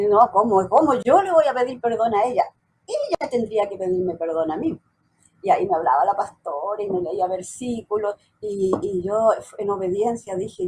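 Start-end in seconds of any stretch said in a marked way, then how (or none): 0.1-4.8 retold indignant objection, starting louder; indignant protest. Daughter recalling her refusal to apologise to her mother, indignant. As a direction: push back as if wronged, re-enacting it. Retells own protest to the pastor.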